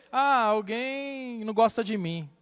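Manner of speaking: slow, mildly mock-pitiful reply. Church member explains why they cry, mock pitiful. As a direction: drag it out like a sorry complainer. Mocking false criers in congregations.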